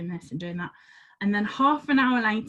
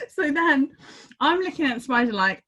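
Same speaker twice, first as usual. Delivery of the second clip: ordinary talk, nothing marked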